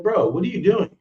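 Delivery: mild retold shout; mock alarmed yell. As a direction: pitch up, startled protest. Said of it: "I went".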